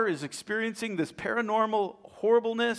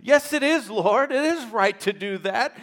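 higher and louder insistent reply; arguing back; 5 semitones higher, 8 dB louder than usual. Retold or imitated. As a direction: push back boldly but with faith. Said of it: "She begins arguing".

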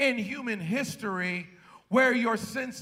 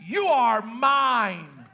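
proclaiming; much slower than usual. Acted. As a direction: declare it like owning someone. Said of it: "who says".

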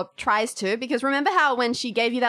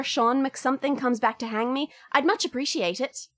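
put-on Irish accent. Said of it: "put myself through more accent trouble".

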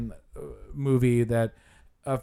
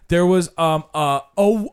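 mock fumbling guide; 5 semitones higher, 5 dB louder than usual. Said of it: "He was just like".

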